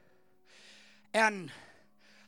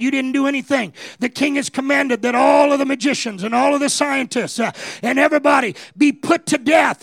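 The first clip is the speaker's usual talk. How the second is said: lightly voiced captain; 5 semitones higher, 9 dB louder than usual. Captain of guard answering.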